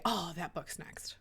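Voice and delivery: whispered quote of a passing remark; whispered aside. Retold or imitated. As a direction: breathe it like a secret.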